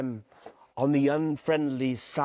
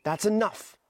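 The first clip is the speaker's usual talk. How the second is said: sharp; 5 semitones higher than usual. Acted. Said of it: "said Ralph sharply".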